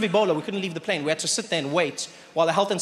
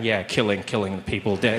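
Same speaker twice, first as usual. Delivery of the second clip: deep, low broken-telephone mumble; garbled low voice; 9 semitones lower than usual. Retold or imitated. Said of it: "this guy's at the back going".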